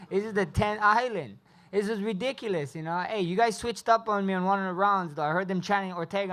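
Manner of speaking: loud, high, hyped up; excited. Real, not acted. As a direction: hype up the crowd. Hyping the Hawaiian crowd.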